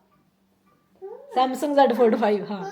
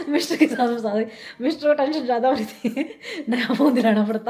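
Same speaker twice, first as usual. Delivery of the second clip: laughing; 3 dB louder than usual. Real, not acted. Joking about husband's worry.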